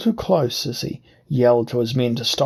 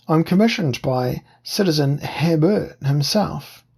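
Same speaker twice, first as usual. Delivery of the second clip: higher, fawning disguised voice; wheedling whine; 4 semitones higher than usual. Acted. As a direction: whine it to seem a humble official. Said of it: "I changed my voice to a wheedling whine".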